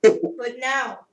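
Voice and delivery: put-on slow, drawn-out Spanish accent; light Spanish accent, slowed down. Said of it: "Spanish accent and go".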